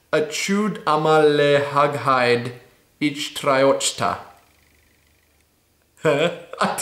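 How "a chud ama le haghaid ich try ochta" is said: slow careful reading. Shown as a demonstration. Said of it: "So it's".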